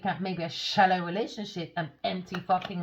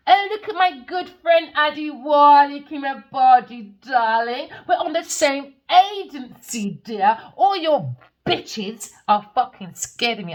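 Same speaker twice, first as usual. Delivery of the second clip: breathy vintage purr; 3 semitones higher, 4 dB louder than usual. Retold or imitated. Mock Facebook post voice.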